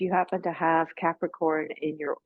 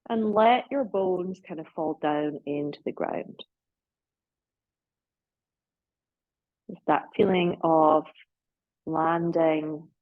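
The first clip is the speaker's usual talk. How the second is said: unhurried yoga nidra guidance with long pauses; guided relaxation. Real, not acted.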